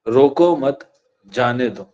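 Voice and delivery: روکو مت together, a break, then جانے دو falling; group روکو with مت, pause, drop on جانے دو; pause after مت. Shown as a demonstration. Teacher reading out a comma example, pause after مت. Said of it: "میں نے یہاں پہ ایک کوما لگا دیا".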